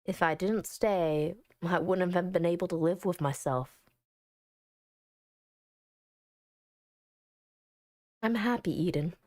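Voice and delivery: low, even storytelling voice; story narration. Acted. Player reading the game's final scene, low story narration. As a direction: read it low and gently measured.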